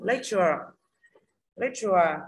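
"Lecture" stressed on "Lec", falling away; strong first syllable in "Lecture", light falling ending. Shown as a demonstration. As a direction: model "Lecture" with the weight up front. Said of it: "lecture thứ nhất".

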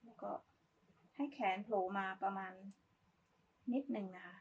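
normal talking voice

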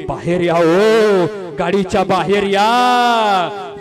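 loud, very slow eerie wail; wailing ghost. Acted. Ghost woman kneels and wails for them to come out. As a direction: drag out the call like a wailing spirit. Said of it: "बोलायची".

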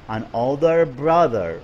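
put-on slow, careful stress on older and brother; teacher modeling the phrase; slow model repeat. Shown as a demonstration. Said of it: "نعلي صوتنا".

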